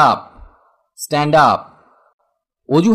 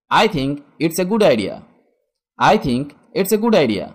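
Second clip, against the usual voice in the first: slow teaching demo; slower than usual. Shown as a demonstration. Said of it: "teacher models English phrase".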